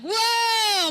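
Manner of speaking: high shouted whoa of shock; a loud high startled gasp-word. Retold or imitated. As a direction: jump back with a yelp of surprise. Startled reaction in retold scene.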